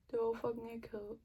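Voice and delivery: normal talking voice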